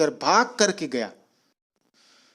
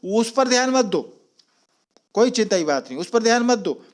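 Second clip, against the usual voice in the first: mild shout; 4 semitones higher, faster than usual. Retold or imitated. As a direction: call it out to wave off the worry. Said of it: "चिल्ला करके बोले".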